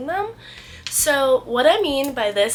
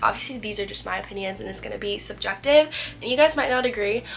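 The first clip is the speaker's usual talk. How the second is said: stuffy nose, a little sick; congested voice. Real, not acted. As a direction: talk through a blocked nose. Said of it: "I'm a little congested".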